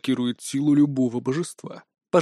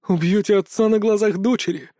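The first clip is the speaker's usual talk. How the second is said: dramatic; 5 semitones higher than usual. Acted. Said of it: "драматично запрокинув голову".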